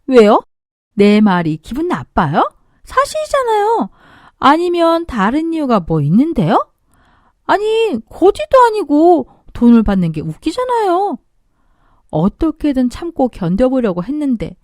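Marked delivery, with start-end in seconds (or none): 0.1-11.2 mocking sister-in-law. Sister-in-law mocks the father.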